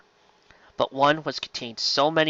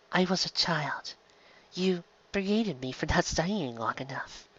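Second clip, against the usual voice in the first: soft teasing; 5 semitones higher, 7 dB quieter than usual. Acted. Delenn teasing her old friend.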